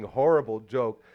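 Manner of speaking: ordinary talk, nothing marked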